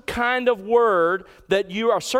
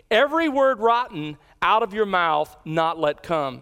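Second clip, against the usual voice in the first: EVERY punched at the start of the line; stress on EVERY. Shown as a demonstration. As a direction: lean hard on "Every", then run on to the end. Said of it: "the emphasis is on every".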